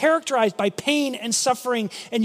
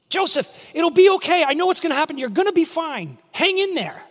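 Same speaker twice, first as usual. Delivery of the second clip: reassuring call to Joseph; 5 semitones higher than usual. Pretend.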